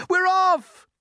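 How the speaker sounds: high, loud cheer; excited cry. Acted. The others cheer the departure, excited. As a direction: cheer together.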